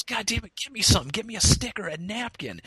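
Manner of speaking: high, irritated mock demand; exasperated demand. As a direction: imitate a fed-up guy wanting help now. Acts the victim demanding help.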